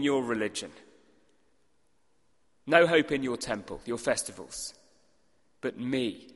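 a bold claim flung at a hostile crowd; confronting Jesus. Acted.

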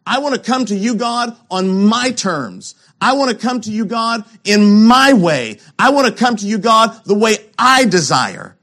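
a touch of a demanding Cain, building; voicing Cain. Preacher voicing Cain to God, a mild insistent demand.

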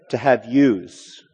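"yous" drawn out as a plural of you; Irish-style "yous", said slowly for emphasis. Shown as a demonstration. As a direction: slowly say "yous" with an added z sound. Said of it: "if you were Irish".

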